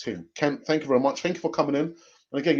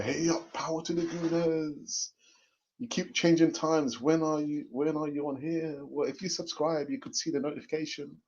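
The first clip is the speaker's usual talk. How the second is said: comment read-out; 3 semitones higher, 7 dB quieter than usual. Retold or imitated. Reads out a viewer's comment.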